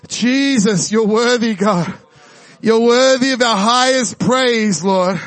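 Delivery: slow, fervent spoken prayer; earnest worship prayer. Acted. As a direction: lift the praise up to God. Prays aloud over the room.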